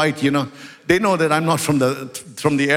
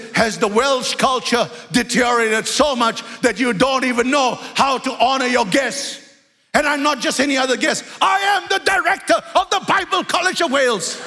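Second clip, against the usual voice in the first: angry retort; 5 semitones higher than usual. Retold or imitated. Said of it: "I exploded".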